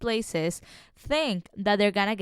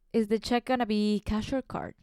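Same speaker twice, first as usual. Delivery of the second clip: awkward laughing server; 5 semitones higher than usual. Retold or imitated. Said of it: "I'm like".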